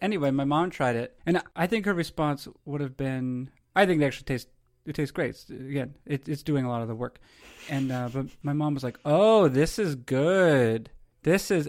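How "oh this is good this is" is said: hollow, insincere polite tone, very slow, "good" drawn out. Retelling a mom's reaction to a cake: imitating insincere praise. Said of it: "and it didn't sound sincere".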